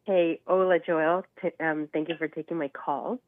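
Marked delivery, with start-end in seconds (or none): 0.0-1.2 stuffy nose, talking through a cold; blocked nose from being sick; nasal sick voice. Real, not acted. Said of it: "sorry for the nasally voice".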